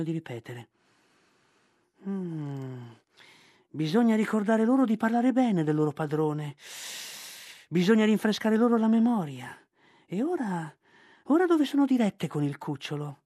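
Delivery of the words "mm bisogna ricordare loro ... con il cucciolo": higher, firm, resolved panther; determined panther Bagheera. Acted. Bagheera vows to remind the monkeys, resolute. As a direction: steel yourself to hunt the monkeys.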